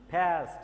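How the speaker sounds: "past" repeated with an open "ae" vowel; corrected pronunciation. Shown as a demonstration. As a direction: teach "past" as "paest", vowel held long. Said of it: "এটা কোনোভাবেই পাস্ট উচ্চারণ না". ("past" অ্যা ধ্বনি টেনে শুদ্ধ উচ্চারণ)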